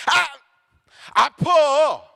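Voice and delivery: high acted cry of pain; playful, high "ouch" outburst; mock pained yelp. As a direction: yelp as if sharply pinched. Acts reaction to being pinched.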